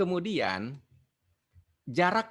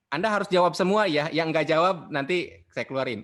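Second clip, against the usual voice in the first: playfully threatening, louder; fake-strict teacher warning the class, louder; mock stern threat; 3 semitones higher, 6 dB louder than usual. Teacher jokingly threatens online class, mock stern and louder. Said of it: "Enggak. Saya nggak sebaik itu".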